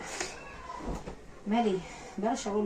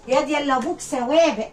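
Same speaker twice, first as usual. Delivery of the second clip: mock taunt; 4 semitones higher, 4 dB louder than usual. Taunting the killer's child.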